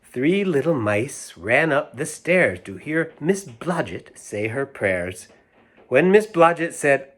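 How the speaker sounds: sing-song nursery rhyme reading; lilting storybook recital. A narrator's reading. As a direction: read it like a rhyme to children. Reads rhyme aloud.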